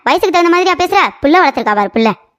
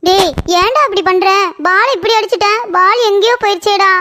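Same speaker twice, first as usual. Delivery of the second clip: put-on high-pitched childish wail of complaint; acted whiny crying for mother; tearful whining; 5 semitones higher than usual. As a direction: act upset, whine towards tears. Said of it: "ஏ, அழுகாத".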